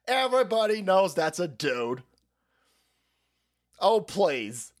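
hammed-up catty Joan Rivers; sassy Joan Rivers. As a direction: brush it off like a catty diva. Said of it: "Joan Rivers goes".

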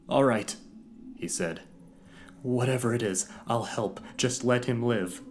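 loud high desperate giving in; desperate agreement. Acted. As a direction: give in with desperation.

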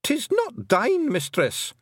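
very high, strained Scots shriek; a panicked wee man protesting his innocence. A narrator's reading. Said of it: "shrieked Rob Anybody".

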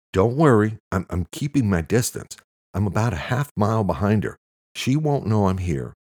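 agitated caller giving updates; manic. A narrator's reading. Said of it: "He sounded manic and out of breath".

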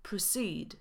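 proceed with reduced first vowel, stress on ceed; schwa, second syllable stressed. Shown as a demonstration. Teacher demonstrating to learners, Proceed stressed on the second syllable. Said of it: "akcent pada na drugą sylabę".

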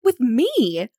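shocked she is the one he wants; utter amazement. Acted. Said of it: "in the most utmost amazement".

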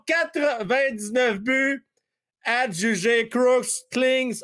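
high, slow closing call; auctioneer. Pretend. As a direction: hammer down the sale like an auctioneer. Auctioneer closes the sale. (crieur d'encan qui adjuge, lent et aigu)

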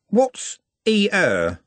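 lightly voiced baffled lad; puzzled Trev.

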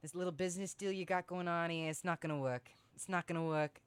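light mock New York accent; a rough stab at a New York accent; attempted New York accent. Shown as a demonstration. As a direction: try a New York mobster accent, slipping into New Jersey. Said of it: "Give me your New York accent".

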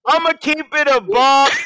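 friend's catchphrase. Retold or imitated. Teasing what he be like, high imitation. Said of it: "he be like".

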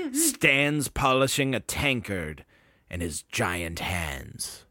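storyteller's measured delivery; game master narration. Acted.

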